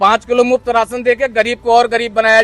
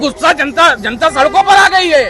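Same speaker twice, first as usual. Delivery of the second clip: worked-up, slightly raised pitch; real anger; 2 semitones higher than usual. Real, not acted. Citizen answering reporter about public anger, angry. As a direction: argue back with real indignation. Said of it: "तो काहे को इतना गुस्सा है".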